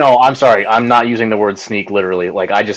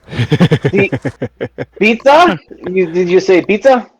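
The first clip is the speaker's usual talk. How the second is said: put-on confused French-accented voice; 5 semitones higher, slower than usual. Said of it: "this fucking accent".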